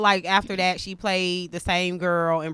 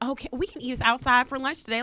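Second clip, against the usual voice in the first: mocked inner-girl voice; 6 semitones higher, faster than usual. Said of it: "inner black girl voice".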